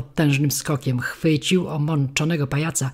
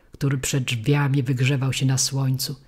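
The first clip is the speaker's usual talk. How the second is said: usual speaking voice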